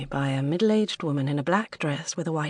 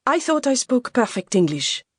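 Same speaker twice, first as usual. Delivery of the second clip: higher, louder, mildly offended protest; slightly affronted; 7 semitones higher, 6 dB louder than usual. Acted. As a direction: protest with wounded pride. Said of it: "Félicité was still slightly affronted".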